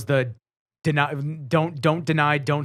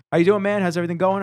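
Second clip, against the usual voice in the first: cheery cop greeting; 5 semitones higher, 3 dB louder, faster than usual. Retold or imitated. Officer greets him at window.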